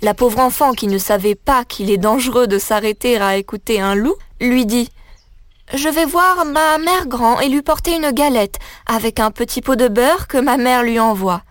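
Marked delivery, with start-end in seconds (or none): 5.8-11.4 put-on lightly raised, innocent little girl; a child cheerfully explaining her errand. Little girl telling the wolf about her errand, innocent.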